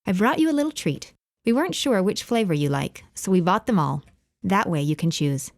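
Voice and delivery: a neighbour's cheerful offer with a hint of English accent. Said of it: "her thick English accent".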